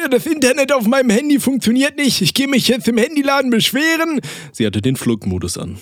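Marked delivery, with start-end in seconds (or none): 0.1-4.2 put-on high old grandma voice, much higher. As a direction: play an indignant grandmother, pitched high. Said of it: "Meine Großmutter dreiundachtzig". (hohe Oma-Stimme)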